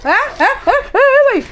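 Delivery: high, loud, excited cries of don't let go; excited high shouting; excited loud urging. Real, not acted. Excitedly urging someone over a dog.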